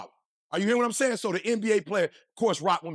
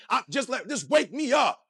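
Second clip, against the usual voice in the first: fired-up plea; 4 semitones higher than usual. Real, not acted. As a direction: shout it like a rallying call. Begging God to wake him.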